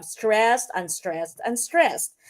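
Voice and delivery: STRESSED strong, then two lighter UNSTRESSED; dactylic stress pattern. Shown as a demonstration. Teacher showing dactylic feet, stress on the first word STRESSED. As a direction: lead firmly on "stressed", ease off for both "unstressed". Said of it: "the opposite naman of your anapistic is dactylic".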